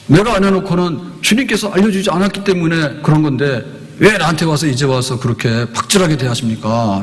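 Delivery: indignant complaint to the judge; protesting. Acted. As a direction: argue as if wronged. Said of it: "라고 따지는 거예요". (심판대 앞에서 따지는 말투)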